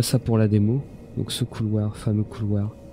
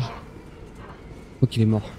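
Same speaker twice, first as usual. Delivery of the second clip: whisper; 4 dB quieter, much slower than usual. Real, not acted. Whispering over a dead enemy.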